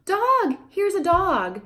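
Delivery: very high clear labeling; name the object brightly for the toddler; high singsong parentese label; simple labeling. Shown as a demonstration. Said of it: "you just say".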